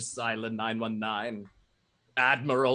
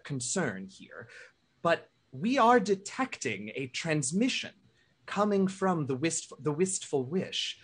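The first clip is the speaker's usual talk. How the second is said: Major Rafia voice; 4 semitones higher than usual. Acted. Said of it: "and she says".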